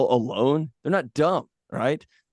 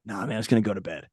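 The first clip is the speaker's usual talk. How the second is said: lazy excuse; 5 dB quieter, faster than usual. Retold or imitated. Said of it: "my first thought is".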